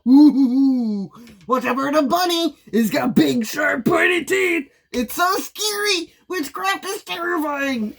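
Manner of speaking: sarcastic fake fright about a scary bunny; mock spooky sarcasm.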